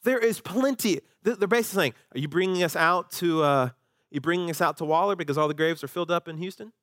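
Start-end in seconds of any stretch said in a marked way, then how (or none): 0.0-1.0 fast, higher sarcastic retort; mock-sarcastic scoff. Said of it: "See, they're being sarcastic". 2.1-6.7 sarcastic. Retold or imitated. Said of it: "See, they're being sarcastic".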